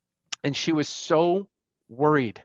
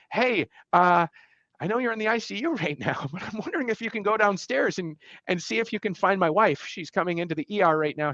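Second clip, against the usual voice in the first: urgent plea; 5 semitones higher than usual. Retold or imitated. Urgent call asking brother for help.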